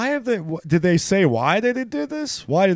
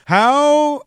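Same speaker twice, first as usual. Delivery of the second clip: put-on Swedish accent; 13 semitones higher, 8 dB louder than usual. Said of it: "is that even close to a Swedish accent".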